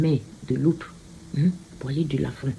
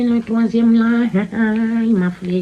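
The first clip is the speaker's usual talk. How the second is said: laughing; 5 semitones higher, 4 dB louder than usual. Real, not acted. Laughs about the third card.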